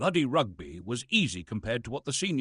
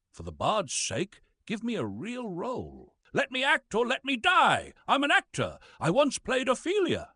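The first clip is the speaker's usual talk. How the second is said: high, hammy theatrical begging; melodramatic plea; 10 semitones higher than usual. Acted. Old actor pleading for a real part, melodramatic high plea. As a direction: beg like a tragic hero on stage.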